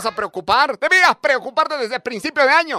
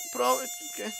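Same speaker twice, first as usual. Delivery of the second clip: squeaky student; 11 dB quieter than usual. Retold or imitated.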